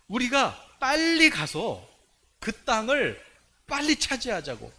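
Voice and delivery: loud, high, drawn-out rallying call; rally the people to hurry, stretching the key words; eager urging. Acted. Acting Joshua and Caleb urging.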